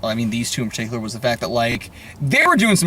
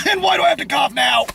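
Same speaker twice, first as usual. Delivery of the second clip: half-laughing complaint at own cough; exasperated outburst; 11 semitones higher, faster than usual. Real, not acted. Exasperated after coughing fit.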